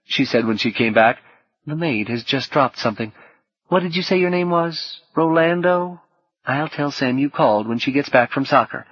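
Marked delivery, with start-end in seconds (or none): 1.7-8.9 woman's voice, lightly southern US; a hint of Southern in a polite woman's reply; slight southern accent. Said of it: "tinged with a slight southern accent".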